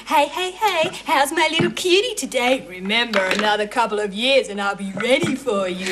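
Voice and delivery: lightly mimicked leering uncle; mocking infuriating uncle. Niece quoting her uncle's greeting to mother, lightly mocking. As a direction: mimic his over-familiar catchphrase. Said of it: "Oh, and that infuriating".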